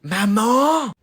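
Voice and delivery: drawn-out falling call; shouting for mum. Acted. Late child summoning mother, shouting. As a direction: yell out for mother.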